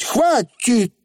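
высоко и резко оборви; нетерпеливый короткий выкрик; окрик. A narrator's reading. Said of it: "крикнула Тиффани". (окрик)

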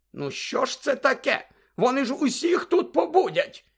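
high-pitched, flustered complaint; indignant matron. Acted. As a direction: fuss in alarm over sleeping patients. (обурена медсестра, високим голосом)

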